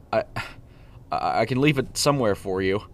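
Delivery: nervous stammer, voice rising. Acted. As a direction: stumble over the first words. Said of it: "Preston stammered".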